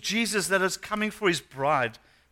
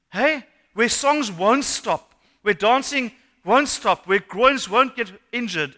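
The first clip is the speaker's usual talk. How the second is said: slow build; 2 semitones higher, 4 dB louder, slower than usual. Acted. Preaching of eternal worship.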